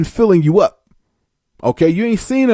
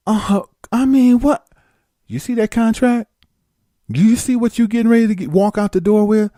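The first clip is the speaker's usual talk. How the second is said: high, startled stammer; flustered disbelief; 7 semitones higher than usual. Retold or imitated. Newcomer balking at the kiss, high and flustered. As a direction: balk in disbelief.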